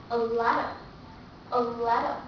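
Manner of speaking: a letter run together quickly; a letter, link into one word; linked fast reading. Shown as a demonstration. Teacher showing fast connected speech. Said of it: "when we read it very fast".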